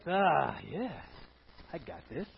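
lightly mocking a proud believer; prideful. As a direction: act puffed up with yourself. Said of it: "a little bit prideful".

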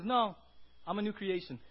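loud, firm refusal of the lie; Robert answering the devil's lies loudly; firm rebuttal. Acted. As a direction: push back hard on the devil. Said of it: "Robert says".

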